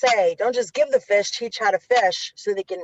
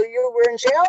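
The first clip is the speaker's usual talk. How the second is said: startled question; 12 semitones higher than usual. Retold or imitated. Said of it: "I go".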